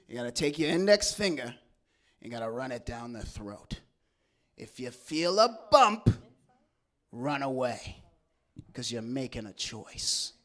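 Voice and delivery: lightly voiced drag queen giving advice. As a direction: advise like a knowing drag queen. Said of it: "one of the drag queens".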